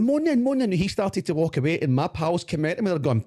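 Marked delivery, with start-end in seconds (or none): 0.0-0.6 high, eager mock bravado; retold challenge. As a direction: take up the fight in a raised pitch. Acted answer to the fight challenge.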